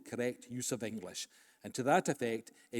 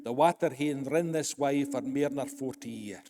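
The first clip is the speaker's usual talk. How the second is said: broad Scots dialect, a little louder; rich Scots; 5 dB louder than usual. Retold or imitated. Advocate pleading before the House of Lords, rich Scots. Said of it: "Clark's rich Scots ran out".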